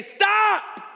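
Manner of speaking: high, loud preacher's shout; sudden piercing command; voice from heaven shouting. Acted. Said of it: "you didn't hear a voice from heaven say".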